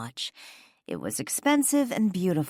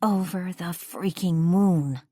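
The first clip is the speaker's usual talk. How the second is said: serious; 4 semitones higher, slower than usual. A narrator's reading. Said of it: "her voice suddenly dropping several octaves".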